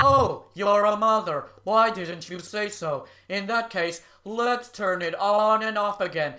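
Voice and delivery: deadpan mock surrender; dry mocking agreement; sarcastic concession.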